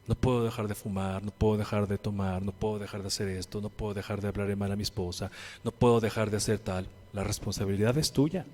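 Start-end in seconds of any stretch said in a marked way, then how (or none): 0.1-6.9 lower, mocking whine of excuses; mock whiny excuses. Preacher mimicking sinners' excuses, mock whine. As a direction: parody the lame excuses. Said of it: "Dejemos los pretextos de".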